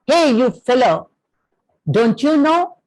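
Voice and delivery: a hammed-up royal bark, not a full yell; retold shout. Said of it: "he shouts".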